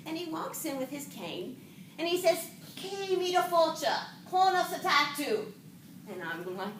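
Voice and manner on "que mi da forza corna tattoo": light, higher Irish lilt; mock Irishman reciting pretend Gaelic; Irish accent. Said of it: "an Irish accent".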